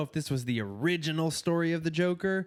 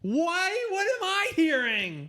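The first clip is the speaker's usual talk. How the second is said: high squeaky mock-offended cartoon voice; 3 dB louder, slower than usual. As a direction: stay in the silly cartoon voice, pretending to be hurt.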